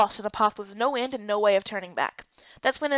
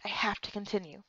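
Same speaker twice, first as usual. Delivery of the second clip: much softer, strength draining away; weak, fading; 3 semitones lower, 9 dB quieter than usual. Acted. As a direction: push the words out with the last of your strength. Heroine weakening underwater.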